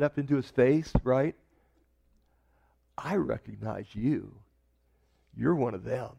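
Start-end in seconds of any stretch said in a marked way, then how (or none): 3.0-6.1 low, hushed "I recognize you"; quiet accusation. Acted. Servant girl confronting Peter at fire, hushed accusing. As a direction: lean in and accuse under your breath.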